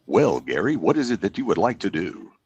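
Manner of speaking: lightly imitating a smooth DJ; smooth radio voice. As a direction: mentor answering in a lightly put-on broadcast voice. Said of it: "I wanna talk like that".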